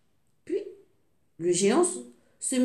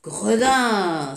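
giantess scolding; 4 dB louder than usual. Acted. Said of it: "s'écria la géante".

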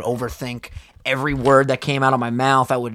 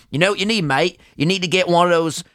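bad British accent; 2 semitones higher than usual. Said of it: "I can't do a fucking British accent".

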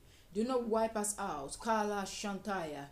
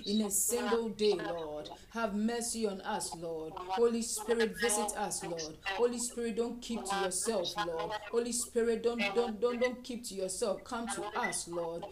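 fervent prayer. Acted. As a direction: cry out to God for the land. Fervent intercession.

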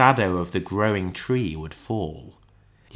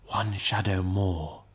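ghost voice; 5 dB quieter, slower than usual. Acted. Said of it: "exclaimed the ghost".

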